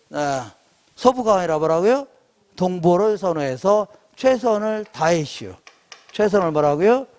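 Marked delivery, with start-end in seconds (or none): 4.2-5.5 light Chungcheong dialect ending; Chungcheong accent. Shown as a demonstration. Lecturer giving students a memory phrase, Chungcheong accent. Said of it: "충청도 버전으로 해야 돼요".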